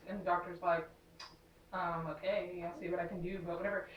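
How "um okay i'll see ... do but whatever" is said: dismissive. Retold or imitated. Retold doctor quote, bored brush-off.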